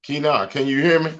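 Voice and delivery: distorted robotic mic sound; glitchy robot voice over a bad mic. Real, not acted. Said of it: "You sound like a robot".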